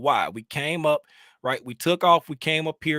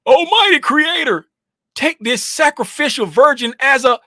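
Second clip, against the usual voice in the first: over-the-top ritual chant; mock high priest; 9 semitones higher, 11 dB louder than usual. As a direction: boom it out like a cult priest offering a sacrifice. Mock ritual invocation for laughs.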